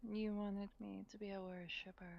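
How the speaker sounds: soft flirty whisper. Acted. Druid whispering to dragon.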